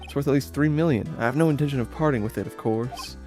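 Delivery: cool, proud refusal; haughty woman voice. Acted. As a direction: play a snooty rich lady turning him down.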